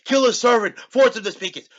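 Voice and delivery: loud, high barked order, acting out the villain; commanding shout. Rogue captain ordering his men, in a loud high shout.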